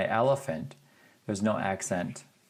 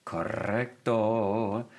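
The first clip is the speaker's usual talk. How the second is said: slow praise; much slower than usual. Acted. Teacher confirming class answer.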